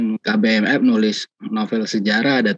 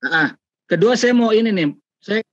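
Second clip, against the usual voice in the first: choppy connection; 5 semitones higher than usual. Real, not acted. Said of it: "masih putus-putus nih".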